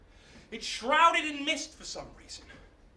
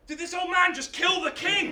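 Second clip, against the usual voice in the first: high, louder incredulous question; appalled realization; 7 semitones higher, 4 dB louder than usual. Acted. Hercules hears the castle's cry, appalled disbelief. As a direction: let the shocking truth dawn.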